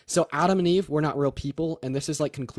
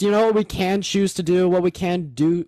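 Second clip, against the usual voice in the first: talking over; 5 semitones higher, 5 dB louder than usual. Real, not acted. Shouting over heckler.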